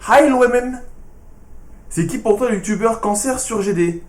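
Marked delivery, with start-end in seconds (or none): 0.1-0.8 « lui-même » prononcé à l'anglaise, voix plus haute, lente; English accent. Retold or imitated. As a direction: imiter un Anglais qui dit « Hi lui-même » en exagérant l'accent. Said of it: "un Anglais qui prononce lui-même". (accent anglais caricatural sur « Hi lui-même »)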